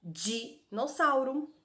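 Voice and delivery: Dinossauro stretched out slowly; slow teacher example. Shown as a demonstration. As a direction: lay it out syllable by syllable. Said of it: "Palavra que começa com i?".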